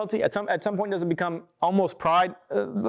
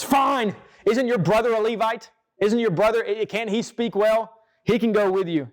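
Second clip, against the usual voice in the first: mildly exasperated, higher-pitched retort; acted fed-up comeback, pitched up at the start; God, angered; 4 semitones higher than usual. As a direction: give in with a touch of annoyance. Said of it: "So God gets angry".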